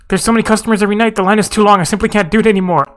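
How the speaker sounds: lightly acted overwhelm, hurried at first. Overworked cook complains about the endless customers, mildly overwhelmed. Voicing an overwhelmed game character.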